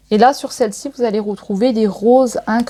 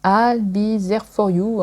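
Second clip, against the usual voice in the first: slow, halting English with a French accent; careful French-accented English title; much slower than usual. Real, not acted. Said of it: "Super, mon accent".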